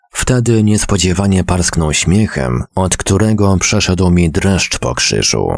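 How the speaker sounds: ordinary delivery, nothing marked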